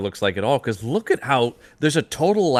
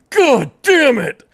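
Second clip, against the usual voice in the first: high, loud, slow angry yell; hammed-up furious shout; angry outburst; 7 dB louder, slower than usual. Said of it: "the gritted teeth".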